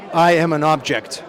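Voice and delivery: slow, flat deadpan declaration; horrible John impression. John tells the director he is just an object, slow deadpan. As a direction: announce it like a stoic actor. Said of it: "I'm gonna do a horrible John impression".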